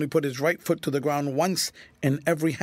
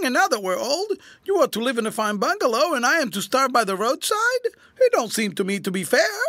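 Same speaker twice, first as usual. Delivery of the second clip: much higher, rising indignant plea; old comrade's bitter complaint to the general; aggrieved old soldier; 7 semitones higher, 4 dB louder than usual. A narrator's reading. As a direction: press the unfairness on him. Tramp pleads with the general.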